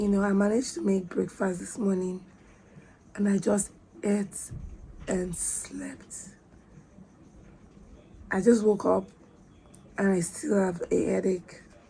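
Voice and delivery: voice gone, lost voice. Talking to the camera while still having a headache: voice gone. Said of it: "My voice is gone".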